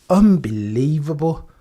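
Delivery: slow, drawn-out unbelievable; slow stunned disbelief. Real, not acted. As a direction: let it sink in slowly. Disbelief at the result.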